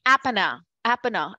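apana with a short first a; retold wrong apana; student's short apana. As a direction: imitate the student's clipped apana. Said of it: "she kept on saying".

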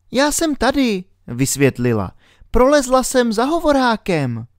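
put-on high girl's voice, worried; little girl Alenka. A narrator's reading. Alenka whispers her worry to herself, in a high girl's voice.

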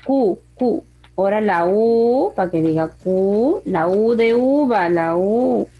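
long held vowels with a lilting rise; spelling dictation. Shown as a demonstration. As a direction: dictate letter sounds, stretching each vowel. Teacher spells out word letter by letter.

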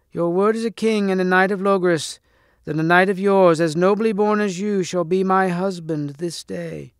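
high hag voice making demands; loathly lady's shrill demand; shrill cracked lady. A narrator's reading. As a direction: hold the high, cracked crone voice. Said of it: "in a shrill, cracked voice".

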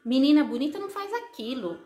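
imitated mother laying down rules; insistent, repetitive mock-parental admonishing; scolding mother. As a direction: list the prohibitions like a lecturing mom. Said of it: "a sua mãe falava assim pra você".

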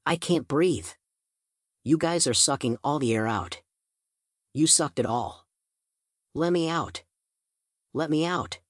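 rising panic, begging to get out; scared and breathless, beg to be let out; panicked pleading. A narrator's reading. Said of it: "That's when Brand snapped".

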